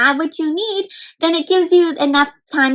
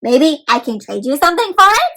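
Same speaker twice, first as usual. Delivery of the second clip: eager robot; 2 semitones higher than usual. Acted. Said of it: "says this robot".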